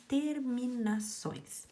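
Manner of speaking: "terminações" said slowly, broken into syllables; sílaba por sílaba. Shown as a demonstration. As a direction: spell out "terminações" one beat per syllable. Teacher spells out the key word. ("terminações" pausadamente, separando as sílabas)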